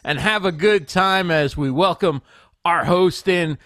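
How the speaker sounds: slow, sing-song host intro read; show intro announcer. Pretend. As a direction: announce the show with drawn-out, swooping words.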